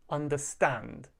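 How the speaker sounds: "understand" with the beat on STAND; stress on final syllable. Shown as a demonstration. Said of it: "we stress the final syllable".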